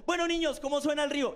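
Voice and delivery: bright, sing-song teacher calling the class; playful teacher. Retold or imitated. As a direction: coax the kids into a game. Profe animando a los niños. (voz de profe juguetona y cantarina)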